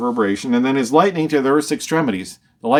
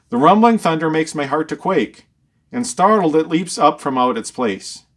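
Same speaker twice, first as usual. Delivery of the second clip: raised, declaimed Bible verse; solemn verse reading, pitched up; scripture reading; 4 semitones higher than usual. Acted. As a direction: read the verse out in a higher, proclaiming pitch. Reads the Bible verse aloud.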